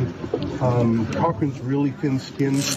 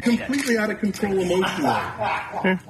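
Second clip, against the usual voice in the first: yelling across the room; 5 semitones higher than usual. Real, not acted. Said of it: "the speaker is yelling across".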